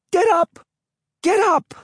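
desperate high-pitched scream. Acted. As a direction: yell it at full voice to get her up. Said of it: "Emily was screaming".

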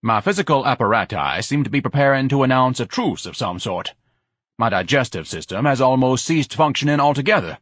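lightly voiced grandiose hypochondriac, emphatic; pompous, slightly heightened character voice; pompous complainer. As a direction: lament bodily collapse with mild theatrical self-importance. Voices pompous Ignatius in story.

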